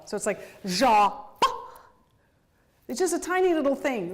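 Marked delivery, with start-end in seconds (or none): 0.6-1.5 long "ja", then a short popped "ba"; accent then staccato. Shown as a demonstration. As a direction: imitate down-bow "ja" and dotted up-bow "ba". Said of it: "has a dot and an up bow".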